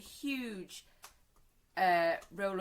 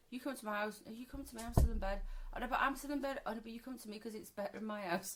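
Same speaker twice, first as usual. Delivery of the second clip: mock teen bickering; 3 semitones higher, faster than usual. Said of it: "how the conversation goes".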